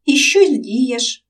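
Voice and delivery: slow, sympathetic question. Acted. Katya sympathizes with Romchyk, slow and sympathetic. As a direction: comfort him gently, slowly. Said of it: "поспівчувала Катя".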